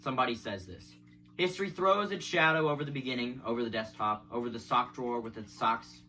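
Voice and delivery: measured recital of a poem; poetry reading. Acted. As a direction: read the verse evenly, phrase by phrase. Reads a poem aloud.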